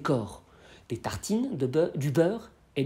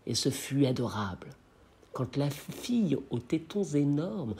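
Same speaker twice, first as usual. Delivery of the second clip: measured poem reading, lower than the commentary; poem recitation; 3 semitones lower than usual. Acted. Reciting Rimbaud's sonnet to listeners before explaining it, measured poem reading. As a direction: recite the verse in short phrases, letting it soften and settle.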